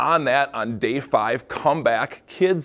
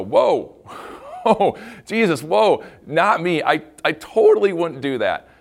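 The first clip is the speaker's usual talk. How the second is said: mock startled protest; 4 semitones higher, 3 dB louder than usual. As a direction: jump back in surprise. Imagined disciple startled.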